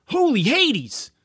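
loud, high startled cry; startled smoker. Acted. Smoker shocked by the fireball, startled cry. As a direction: blurt it out in shock. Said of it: "said one of the smokers".

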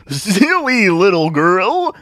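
high, loud, drawn-out stage voice; oily showman's put-down; condescending magician. Acted. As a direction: patronise the child theatrically.

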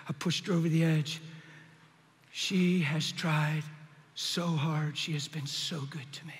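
softening, fading to a whisper; remorseful realization. Retold or imitated. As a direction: let it sink to a broken whisper. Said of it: "I went".

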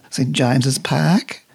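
slow, carefully English Saint James's Park, dropping the r in Park; imitating a young New Zealander trying out an English accent; put-on English accent, slow and careful, rising at the end. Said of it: "Great accent, Peter".

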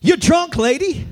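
high, sharp accusing priest; mock-scolding priest voice; judgy priest. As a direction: fling the accusation at her like the priest. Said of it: "immediately he just says".

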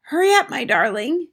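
grandmother calling out; high, loud call to hurry someone along; urgent shout. A narrator's reading. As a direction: call urgently to a child out of sight. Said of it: "it shouted".

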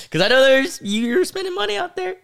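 very high, teasing squeak; mock-scolding in a high voice; squeaky joke voice. Joking guilt trip, high put-on voice.

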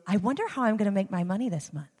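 quick, light curious wondering; light curious energy. Shown as a demonstration. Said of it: "It's all in energy".

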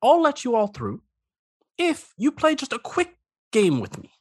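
lightly voiced lonely crab; a hint of a needy crab; crab character voice.

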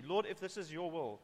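softly submissive request, falling away at the end; humble prayer. Acted. David asks God if it is his will, humble. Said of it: "Again, that humility".

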